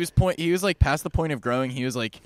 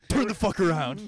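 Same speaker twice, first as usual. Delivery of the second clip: put-on slow, higher, snarling comeback from the old man; mock rude retort; 9 semitones higher than usual. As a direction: spit it back at the table behind. Previews the old man's retort.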